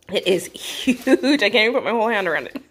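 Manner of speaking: chuckling through it; amused at the size; laughing. Real, not acted. Laughing at huge burrito.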